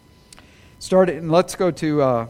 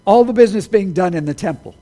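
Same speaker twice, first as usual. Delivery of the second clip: laughing, louder self-correction; 4 dB louder, faster than usual. Real, not acted. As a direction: laugh it off and fix the word. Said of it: "I, I'm sorry".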